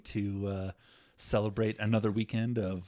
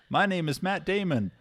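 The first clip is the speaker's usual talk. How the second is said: high, mock French "Bonjour."; hammed-up French accent; 7 semitones higher, 5 dB louder than usual. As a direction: spoof an actor's clumsy French accent. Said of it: "or you can be like".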